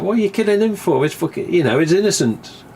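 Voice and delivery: high indignant protest; mock indignation at the film; retold outrage. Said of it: "I was like".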